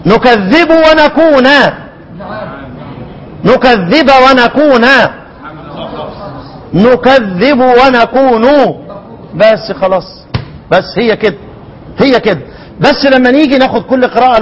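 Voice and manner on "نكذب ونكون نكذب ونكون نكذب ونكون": recited reading. Shown as a demonstration. Teacher reading the combined reading aloud for students, slow chant. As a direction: chant the two words slowly as a reciter would. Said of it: "انا هقرأ".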